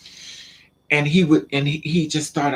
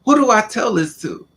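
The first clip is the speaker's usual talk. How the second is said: panicked; 5 semitones higher than usual. Retold or imitated. Retold panic, who to tell.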